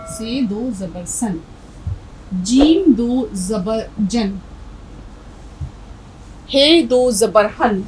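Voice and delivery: "तन", "सन", "जन", "हन" said slowly, each ending in n; slow drilled syllables. Shown as a demonstration. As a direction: read each letter slowly for the class, closing on n. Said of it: "नून की आवाज़ निकालेंगे".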